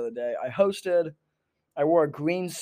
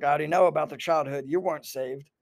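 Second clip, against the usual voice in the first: mock country-accented conspiracy therapist; lightly put-on country accent. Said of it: "a country accent".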